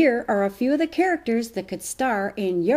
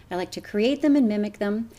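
normal talking voice

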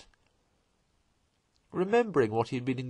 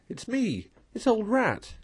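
higher, eager announcing of himself; cheerful calling; 11 semitones higher than usual. A narrator's reading. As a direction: shout your name so your friend can find you. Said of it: "calling out cheerfully".

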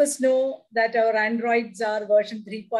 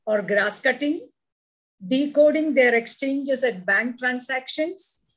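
poem recitation. Acted. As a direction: savour each line of the poem. Poem reading.

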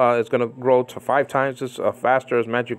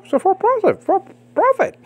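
emphatic preaching. Real, not acted. Preacher condemning false prophet, fervent. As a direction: declare it with fire.

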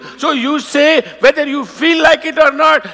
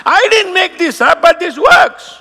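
emphatic shout; 5 semitones higher than usual. Real, not acted. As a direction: shout it with conviction. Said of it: "emphatic claim".

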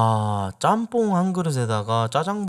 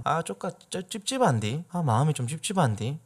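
Jeolla dialect; 3 semitones higher, 5 dB quieter than usual. Shown as a demonstration. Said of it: "이렇게 써요".

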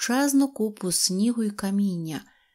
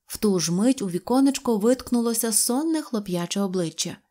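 usual speaking voice

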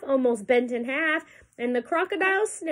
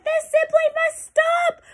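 very high, slow mouse shout; indignant shout; 4 dB louder, slower than usual. A narrator's reading. Soaked mouse orders the laughing to stop, high shout. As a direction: squeak it out forcefully, word by word. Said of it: "he sat up and shouted".

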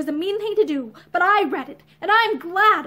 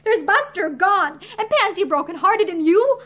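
miserable; 3 semitones higher, 4 dB louder than usual. Acted. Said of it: "She laughed miserably".

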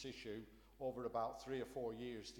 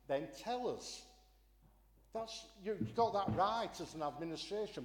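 angry; 4 semitones higher, 4 dB louder than usual. Real, not acted. Heated council rebuttal, raised voice.

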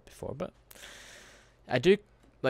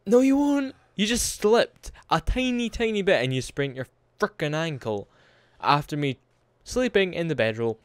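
exasperated yelling; 6 semitones higher, 7 dB louder than usual. Real, not acted. Yelling at game character.

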